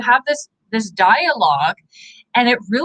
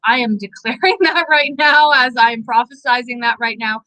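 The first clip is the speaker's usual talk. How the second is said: laughing declaration; 2 semitones higher than usual. Real, not acted. Laughing while prophesying.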